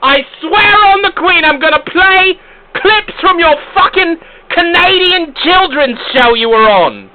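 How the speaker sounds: loud, high-pitched ranting; mock-furious threat. Host threatening the caller with embarrassing clips, shouting. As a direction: scream the threat in comic British outrage.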